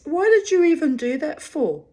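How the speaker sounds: high, loud mock-indignant question; retold indignation. Retold confrontation with Pete.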